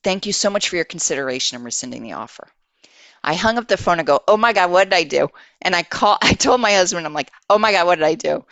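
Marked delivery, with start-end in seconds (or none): 4.3-5.3 louder, fast mock-panicked outburst; higher, quick "oops" alarm; retold panic. Retells her panic after hanging up. 7.5-8.4 louder, fast mock-panicked outburst; higher, quick "oops" alarm; retold panic. Repeats the panic told to husband.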